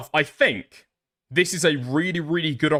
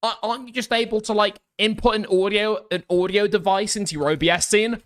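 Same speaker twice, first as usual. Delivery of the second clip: nerdy chatter; 5 semitones higher than usual. Retold or imitated. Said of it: "Being like".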